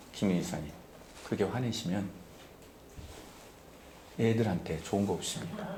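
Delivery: low, soft, measured appeal to calm down; 차분한 만류. Acted. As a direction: gently reason with an angry church member. Voices himself gently counseling angry deacon. (낮고 차분하게 타이르듯)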